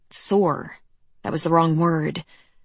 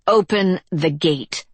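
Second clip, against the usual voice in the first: slow words through gritted teeth; through clenched teeth; 3 dB louder, slower than usual. Acted. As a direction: grit your teeth and push it out slowly. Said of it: "she said through clenched teeth".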